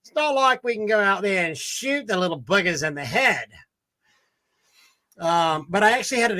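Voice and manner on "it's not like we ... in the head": put-on Australian accent. Diner explaining beef to his waiter, Australian accent. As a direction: tell it like an Aussie to his waiter. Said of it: "He was doing an Australian skit".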